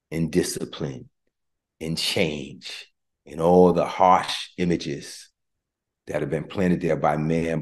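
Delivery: prayer. Real, not acted. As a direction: pray over them gently. Praying for the congregation.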